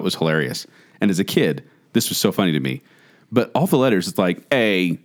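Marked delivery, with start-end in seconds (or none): 4.5-5.0 lower, lightly robotic letter readout; robotic toy voice. Retold or imitated. Co-host demonstrating the toy's letter sounds, lightly robotic. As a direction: imitate a toy naming a letter. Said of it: "that's how it sounded".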